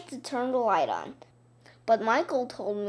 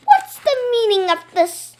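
stern teacher; 10 semitones higher, 9 dB louder than usual. A narrator's reading. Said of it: "she asked".

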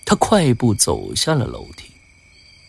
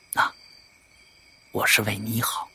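very soft, discreet voice; hushed confiding; 3 semitones lower, 11 dB quieter than usual. Acted. Visitor cautioning the man privately, hushed. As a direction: confide it quietly.

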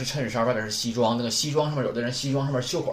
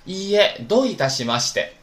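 louder, higher teacher model; model reading; 6 semitones higher, 4 dB louder than usual. Shown as a demonstration. Teacher models you're welcome for the class. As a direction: say it crisply for students to repeat. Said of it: "不用谢是".

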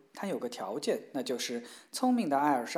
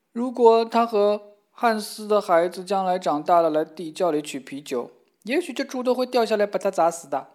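mild crying; 4 semitones higher, 6 dB louder than usual. Acted. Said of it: "三个人都在哭".

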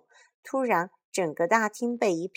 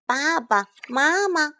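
high, loud, drawn-out cry for parents; child's desperate wail; anguished cry; 8 semitones higher, 5 dB louder, slower than usual. Acted. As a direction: call out in horror, slow and stretched. Finds parents turned to crystal.

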